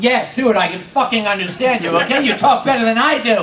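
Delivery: ordinary talk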